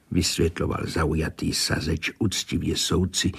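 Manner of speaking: usual speaking voice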